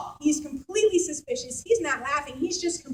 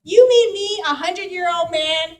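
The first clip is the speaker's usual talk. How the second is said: incredulous laughing; 4 semitones higher, 5 dB louder than usual. Retold or imitated. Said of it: "falls down double over in laughter".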